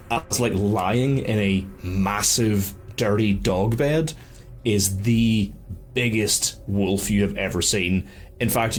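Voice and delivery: slow, suspenseful scene setting; game master narration. A narrator's reading. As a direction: draw out the menacing reveal slowly. Game master describes the wolf.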